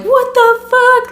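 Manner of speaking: high, drawn-out disbelief; stunned, high-pitched retort; retold shock. Retelling shocked reaction to grab.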